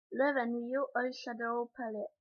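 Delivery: slow English brand name in a Quebec French accent. Real, not acted. Vlogger reading an English product name, slow Quebec French accent. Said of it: "désolé pour mon accent".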